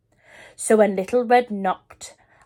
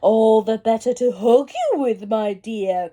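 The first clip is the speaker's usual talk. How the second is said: growl; 4 dB louder than usual. Acted. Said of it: "growled the wolf".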